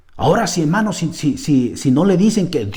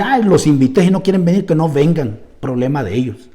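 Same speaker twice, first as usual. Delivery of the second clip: proud grumble. Retold or imitated. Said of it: "Me podría meterse el orgullo y decir".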